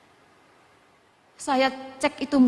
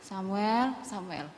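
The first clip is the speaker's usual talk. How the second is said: rising call, then much lower and softer; voice calling Samuel; 3 semitones lower, 4 dB quieter, much slower than usual. Retold or imitated. God calling little Samuel again, gentle falling-away call. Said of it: "Celuk mana Samuel cilik kuwi".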